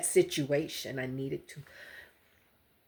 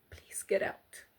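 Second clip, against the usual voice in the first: whispered, pleading softly; urgent plea; 9 dB quieter than usual. Real, not acted. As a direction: beg them quietly to leave. Begging viewers to escape abuse.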